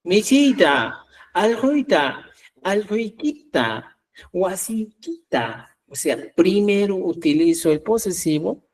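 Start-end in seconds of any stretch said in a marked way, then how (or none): 0.0-5.8 slow, careful teaching demo of each word. Shown as a demonstration. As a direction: spell the suffix out slowly, word by word. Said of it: "tiene que utilizar antes el sufijo acusativo ta".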